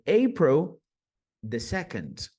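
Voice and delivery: slow, careful "April the second"; slow model date. Shown as a demonstration. Teacher slowly models an American date. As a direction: give the date slowly as an example. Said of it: "Então, se é dia dois de abril".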